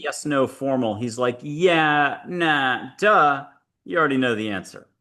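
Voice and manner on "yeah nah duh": lightly imitated terse dry wit; deadpan one-word answers, each set apart; Geronimo. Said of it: "he's dry wit, action, doesn't talk yes, no, formal".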